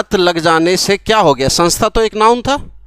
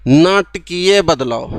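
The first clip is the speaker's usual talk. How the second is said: नाटकीय बदलाव said slowly, syllable by syllable; slow model reading; 4 semitones lower, much slower than usual. Shown as a demonstration. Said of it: "पढ़ के देखो".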